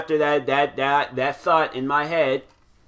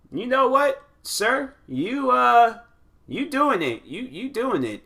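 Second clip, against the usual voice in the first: playful praise; 9 semitones higher, slower than usual. Retold or imitated. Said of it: "I'm like".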